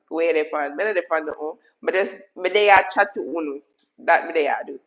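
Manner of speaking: flowing Jamaican patois. Shown as a demonstration. Streamer showing how patois is said, chatting in Jamaican patois. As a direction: chat away in Jamaican patois. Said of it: "You say".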